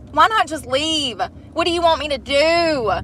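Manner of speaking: high, loud exasperated plea; mock exasperated yell. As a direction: plead with the critter in frustration. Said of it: "I was like".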